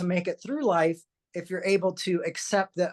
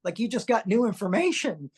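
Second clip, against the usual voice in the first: reassuring mom; 4 semitones higher than usual. Retold or imitated. Mom reassures son, retold.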